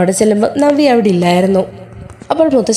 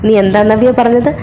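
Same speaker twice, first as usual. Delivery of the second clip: ordinary delivery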